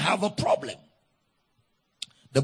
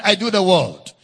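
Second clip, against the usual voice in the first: louder; 4 dB louder than usual. Shown as a demonstration. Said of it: "Say it very loud".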